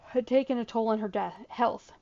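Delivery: talking through a yawn; words stretched by a yawn. Real, not acted. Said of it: "I don't know why I'm yawning so much".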